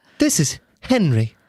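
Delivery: light, bright, breathy voice. The ship's system answers a crew member's call: breathier, brighter Henry voice. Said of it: "You sound breathier".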